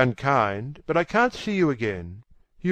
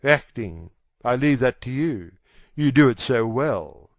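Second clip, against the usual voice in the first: mildly bitter, slightly louder retort; 5 dB louder than usual. A narrator's reading. Dorian answers the actress kneeling before him, bitter retort. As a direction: answer back with a touch of bitterness. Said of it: "he answered bitterly".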